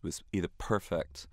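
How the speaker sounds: breathy hush, imitating the boss; hushed perfectionist. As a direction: whisper it like a sacred word. Mimicking the boss's perfectionism.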